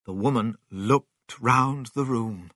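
ordinary delivery, nothing marked

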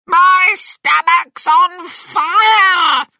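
very high, loud, drawn-out wail; agonised shout. A narrator's reading. Grandma's stomach is burning, high screaming shout. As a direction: scream it slowly in burning alarm. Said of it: "Grandma shouted".

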